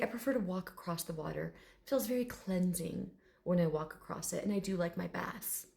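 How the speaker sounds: soft, lightly dignified dragon; proper gentleman. Retold or imitated. Dragon explaining his baths, softly dignified. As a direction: explain it quietly, with mild refinement. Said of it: "this very proper gentleman".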